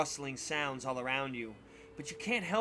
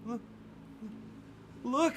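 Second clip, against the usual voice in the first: urgent look; 9 semitones higher than usual. Acted. Donnie points at shadow.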